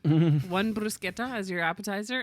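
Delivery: bruschetta with a hard k in a server's voice; Italian pronunciation. Retold or imitated. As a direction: say bruschetta as brus-KEE-ta. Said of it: "I'd be like".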